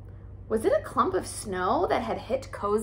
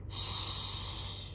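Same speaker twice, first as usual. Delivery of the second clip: soft unvoiced shush; whispered shush; 11 dB quieter than usual. A narrator's reading. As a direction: hush them in a breathy whisper. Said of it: "she whispered".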